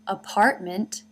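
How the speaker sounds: "Apartment" whispered with an open ah before the R. Shown as a demonstration. Teacher whispering "Apartment" over slow-motion footage. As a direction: breathe "Apartment" without voice. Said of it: "ah as in father, followed by the R".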